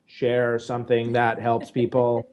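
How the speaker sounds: flat robotic monotone. Shown as a demonstration. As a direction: read it like a robot. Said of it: "let's say it as a robot".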